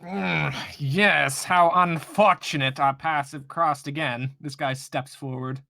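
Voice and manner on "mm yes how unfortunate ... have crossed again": slow, lightly voiced villain; villain greeting. Game master as foe meeting the party again, slow villain greeting. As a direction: draw it out like an old foe returning.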